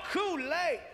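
high, delighted exclamation; excited. Retold or imitated. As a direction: imitate someone thrilled by each new treat. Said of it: "He's getting excited over every single item".

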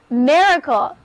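a clear teacher model of miracle for students to copy; model pronunciation. Shown as a demonstration. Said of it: "Read after me".

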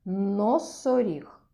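slow, drawn-out Носоріг; teacher drawing out the word for children; slow model word. Shown as a demonstration. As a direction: say Носоріг slowly, every sound clear. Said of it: "Хто в нас там?".

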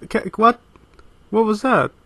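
loud, high disbelieving what; startled outburst of disbelief; shocked. Real, not acted. Shocked by clip in video.

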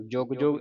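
ਜੁਗ ਜੁਗ said tightly with pressed g; short, tight ਜੁਗ ਜੁਗ, as if doubled; tight consonants. Shown as a demonstration. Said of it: "ਕੱਸ ਕੇ ਬੋਲਣ ਵਾਲੇ".

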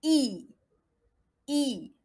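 "I" as a clear, falling "ee"; well-spread French I. Shown as a demonstration. Teacher drilling the third vowel, "I" as a spread "ee". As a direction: spread "I" fully into ee, never é. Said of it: "نكسر bien le I".

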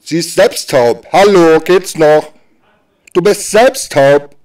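indignant. Acted. Scolding someone deaf who pities deaf baby.

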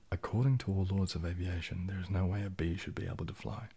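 soft, quiet, deliberate read of the line; hushed, intimate recitation; ASMR reading on request. Shown as a demonstration. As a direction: read it gently into the mic like an ASMR trigger. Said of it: "can you say".

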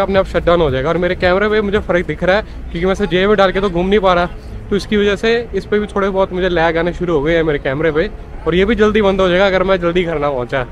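normal talking voice

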